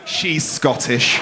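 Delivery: slow, drawn-out mock heckle; imitating a heckler. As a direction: stretch it out like the audience member. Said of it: "I love someone went".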